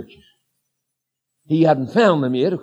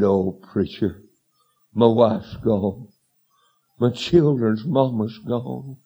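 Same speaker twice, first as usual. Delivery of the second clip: retold bawling; 5 semitones lower, slower than usual. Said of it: "just bawling".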